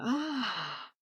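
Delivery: long exasperated sigh, tailing off; acted waking groan. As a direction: let out a weary mock groan. Waking up full of rage.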